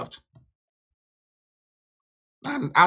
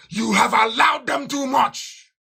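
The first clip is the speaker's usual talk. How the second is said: slow, higher pitched shout; 6 semitones higher, slower than usual. Real, not acted. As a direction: hammer each word out slowly. Berating his listeners.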